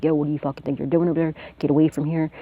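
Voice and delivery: fast, mock snap at a stranger; imitating a snap. A friend guarding her door, snapping at someone who comes near. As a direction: retell a friend running people off, quickly. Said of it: "he would snap out on him".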